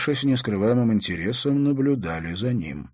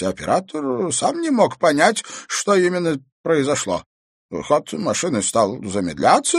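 lightly voiced old man telling his story; an old man recounting, a touch uneasy; old Bestuzhev recounting a mystery; old man's voice; 10 semitones higher, 5 dB louder than usual.

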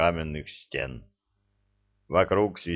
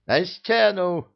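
barked order; 10 semitones higher, 3 dB louder, slower than usual. A narrator's reading. Repeated order to the wall.

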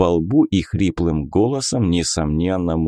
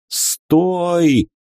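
high, loud cry of terror; terrified shout; 10 semitones higher, 3 dB louder than usual. A narrator's reading. Dark god begs the wizard to stop, terrified shout. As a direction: scream it in panic. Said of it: "закричал в ужасе тёмный бог".

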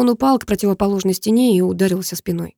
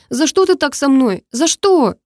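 put-on high, louder girl's anguished question; plead, pitched up; desperate girl; 7 semitones higher, 3 dB louder, slower than usual. A narrator's reading. Karina crying, hitting him. (высокий девичий голос, с отчаянием)

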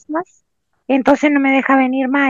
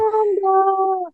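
slow mic check; 4 semitones higher, much slower than usual. Acted. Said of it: "Ahí cuando acerca la boquita".

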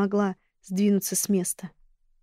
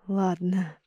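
hoarse rasp; 2 semitones lower, 4 dB quieter than usual. Acted. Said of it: "прохрипела я".

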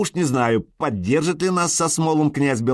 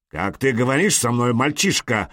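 ordinary delivery, nothing marked

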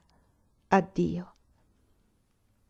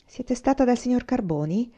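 proud bitterness; 5 semitones higher than usual. Acted. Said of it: "chiese con fiera amarezza".

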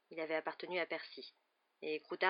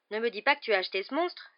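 higher, louder disbelief; aghast exclamation; 4 semitones higher, 6 dB louder than usual. A narrator's reading. Boy to friend holding a huge cat, aghast exclamation. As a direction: exclaim in open-mouthed dismay. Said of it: "s'exclama Ron bouche bée".

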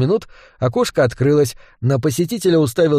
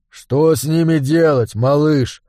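fawning; slower than usual. Acted. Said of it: "льстиво пропел".

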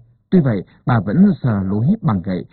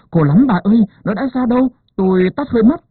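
high strained cry of labour pain; pained wailing; 10 semitones higher, faster than usual. A narrator's reading. Wife in labour crying to the midwife, high pained wail. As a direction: moan it out high, in agony. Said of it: "chị quằn quại kêu".

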